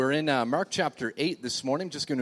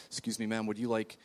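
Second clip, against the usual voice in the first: soft, polite mock air hostess; quiet, courteous imitation of a flight attendant; 4 semitones lower, 9 dB quieter than usual. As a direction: gently offer the meal like cabin crew. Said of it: "she was very politely saying".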